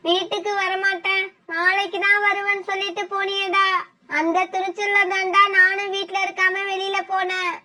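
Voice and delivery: quiet grieving confession. Acted. Mother confesses over dying son.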